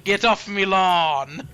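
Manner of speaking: slow, drawn-out mock British accent; thick British accent. Imitating a commenter on Lucy sitting outside, thick British accent. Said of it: "very thick British accent".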